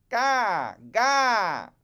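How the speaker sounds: put-on high, loud baby wail; baby crying gah. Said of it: "Raven Child said".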